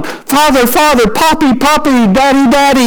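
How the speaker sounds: high-pitched imitation of eager children; little children yelling. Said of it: "little children coming out yelling".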